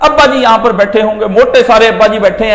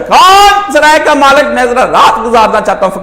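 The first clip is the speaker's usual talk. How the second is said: beggar's call; 3 semitones higher, 3 dB louder than usual. Retold or imitated. Beggar calls asking for a night's shelter, louder. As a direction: call out the question to the palace. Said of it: "وہ یہ پوچھے".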